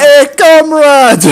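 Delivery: put-on slow, high Russian accent. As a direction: greet them in a thick Russian accent. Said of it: "I keep turning Russian".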